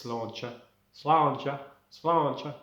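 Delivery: key word in an Irish accent. Shown as a demonstration. Showing the word that unlocks Irish, Irish accent. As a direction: repeat it to find the Irish accent. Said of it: "In Irish".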